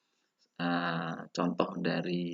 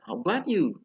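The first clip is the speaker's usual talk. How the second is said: "How about you" high on about, then falling; drilled "How about you", high arch; intonation drill; 10 semitones higher, 5 dB louder than usual. Shown as a demonstration. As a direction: lift "about" and let "you" fall. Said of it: "ada pronunciation and intonation".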